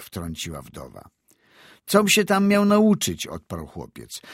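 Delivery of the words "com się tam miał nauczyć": high, louder defiant retort; indignant boy. A narrator's reading. Boy answering his elders, indignant and loud. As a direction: protest with a boy's outburst.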